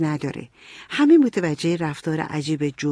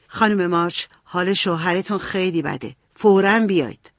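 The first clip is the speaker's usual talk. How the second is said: reading an urgent telegram aloud, understated. A narrator's reading. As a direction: read it out, pressing on the final words. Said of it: "گرفت و بلند خوند". (بلند خواندن تلگراف، کمی با فوریت)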